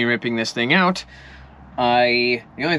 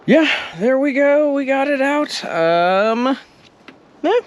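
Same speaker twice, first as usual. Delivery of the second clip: excited; 11 semitones higher than usual. Real, not acted. Cabinet finally removed, celebrating.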